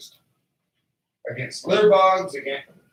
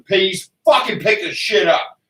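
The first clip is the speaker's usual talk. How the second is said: retold angry demand; 3 semitones higher, slower than usual. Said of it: "and I asked them".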